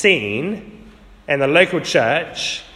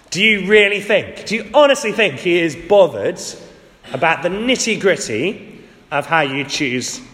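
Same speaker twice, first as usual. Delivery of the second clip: mock false teacher. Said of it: "here's what they would be saying".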